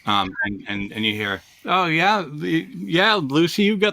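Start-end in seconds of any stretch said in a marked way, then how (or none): 1.6-3.9 raised pitch, light heckle from the side; teasing offscreen voice. Retold or imitated. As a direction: lightly voice a cartoon kid's jibe. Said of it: "when you hear a voice come from the side".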